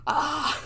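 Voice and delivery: high mock "ah"; imitation of a shocked gremlin; imitated gremlin gasp. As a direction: gasp like a startled movie creature. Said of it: "he's like".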